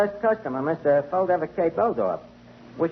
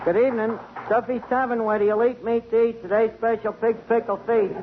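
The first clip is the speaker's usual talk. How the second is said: higher-pitched tavern phone patter; recited phone greeting; 4 semitones higher than usual. Acted. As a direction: rattle off the memorized greeting poem. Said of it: "say that poem you made up".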